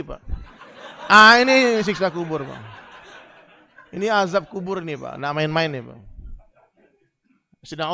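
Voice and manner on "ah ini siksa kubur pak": loud laughing warning; preacher laughingly warns of grave torment; laughing mock horror. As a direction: laugh while warning them.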